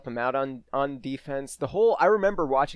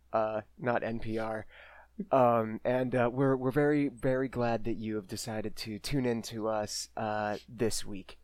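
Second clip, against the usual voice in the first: low, soft public radio murmur; NPR guest parody; 4 semitones lower, 6 dB quieter than usual. Pretend. Co-host thanks the host and sponsor in mock NPR voice. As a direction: play a soothing NPR voice with hesitant ums. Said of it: "I can't fucking keep that up".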